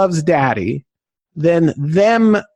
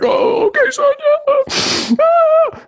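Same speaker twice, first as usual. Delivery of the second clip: much higher, choked-up crying voice; voice breaking; much slower than usual. Retold or imitated. Father answering his son at dinner, voice breaking with tears. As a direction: fight back tears as you answer. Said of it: "trying not to cry at dinner".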